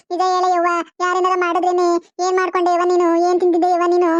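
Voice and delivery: chanted lament in short, repetitive phrases; theatrical keening on an even tune; acted wailing lament. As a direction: wail over your sick mother, line after line. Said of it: "ಏನ್ ಗೋಳ ಆಡ್ಕೊಂಡ್ ಬಂದಿದ್ದಾಳೆ".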